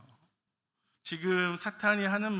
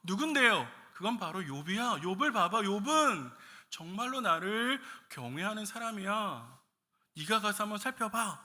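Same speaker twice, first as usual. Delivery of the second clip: God answering; 4 semitones higher than usual. Acted. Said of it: "그래서 하나님은".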